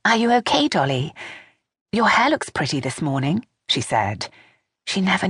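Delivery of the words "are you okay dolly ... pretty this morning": lightly voiced younger woman, a little higher; a hint of a nervous daughter-in-law; Vanessa voice. A narrator's reading.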